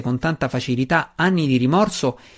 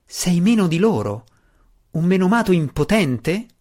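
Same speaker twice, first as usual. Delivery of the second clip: higher, pressing challenge to Belwar; exclaimed retort; 6 semitones higher than usual. A narrator's reading. Drizzt goads Belwar about pity, raised pitched retort. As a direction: throw the taunt back at him, pitch up. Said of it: "esclamò Drizzt di rimando".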